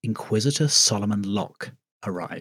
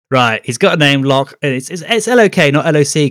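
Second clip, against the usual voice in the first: mock proud parent; 5 semitones higher, 9 dB louder than usual. Voicing parents naming child.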